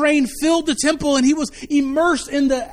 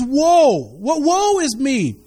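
slow lament; slower than usual. Acted. Isaiah's lament read aloud.

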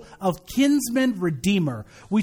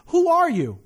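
higher, startled question; mock alarmed; 8 semitones higher than usual. Preacher voicing Boaz finding a woman at his feet, mock alarmed. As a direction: ask it as if jolted awake by a stranger. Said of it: "and he's alarmed".

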